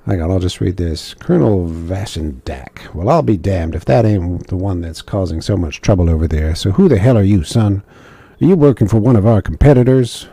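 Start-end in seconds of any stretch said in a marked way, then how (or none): 1.2-10.3 a put-on drawling officer, lightly voiced; questioning a stranger in a gruff accent. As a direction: play the colonel with a put-on accent. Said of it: "I'm giving him a new accent".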